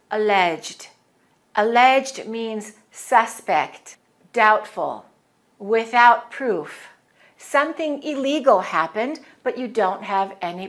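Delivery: Alleged said slowly and clearly for repeating; slow, careful course recording; slow teaching read. Shown as a demonstration. Teacher recording course words for students to repeat. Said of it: "I pause and I give you a chance to repeat".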